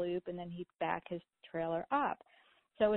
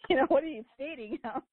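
laughing dad; 7 semitones higher, 7 dB louder, faster than usual. Retold or imitated. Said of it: "He goes".

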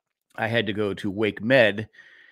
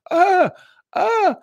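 high, loud mock cries of pain; pained cry; 7 dB louder than usual. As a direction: voice the aching leg crying out. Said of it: "my leg was like".

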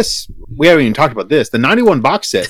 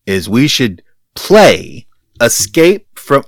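usual speaking voice

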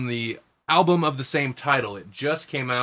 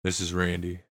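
low smooth radio DJ voice; 3 semitones lower than usual. Pretend. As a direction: put on a deep radio host voice. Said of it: "testing out my radio voice".

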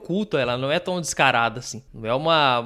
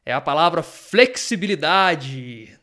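dramatic reveal; 2 semitones higher, 5 dB louder, slower than usual. Real, not acted. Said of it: "soem os tambores".

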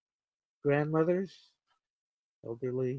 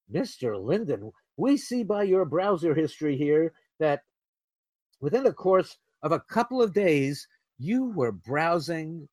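rising, louder mock CIA interrogator, incredulous; 3 semitones higher, 3 dB louder than usual. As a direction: grill him about the cucumber search.

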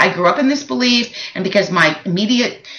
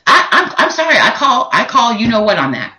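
fired up. Real, not acted. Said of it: "I sound a little fired up".

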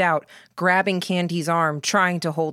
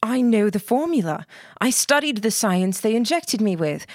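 urgent insistence; 6 semitones higher than usual. Acted. Emily insisting, rising pitch.

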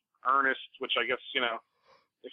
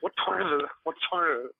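slightly higher, put-on Southern accent; 5 semitones higher than usual. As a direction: imitate a barroom Southern accent, fumbling. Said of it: "talking to people in a Southern accent".

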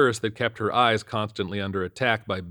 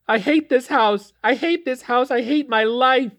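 put-on high, loud, slow teen whine; whining teen; 8 dB louder than usual. A narrator's reading. Daughter Melody whining to dad, high and loud. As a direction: whine it like a sulky thirteen-year-old.

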